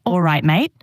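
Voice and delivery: a light Aussie accent; Australian accent. Shown as a demonstration. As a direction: try a casual Australian accent. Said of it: "you start talking with an Australian accent".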